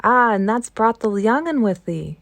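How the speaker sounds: a hinted broad Yorkshire station master; rough, good-natured Yorkshire greeting, only lightly done; station master greeting the housekeeper in a touch of Yorkshire; light Yorkshire accent. Acted. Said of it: "broad fashion which Mary found out afterwards was Yorkshire".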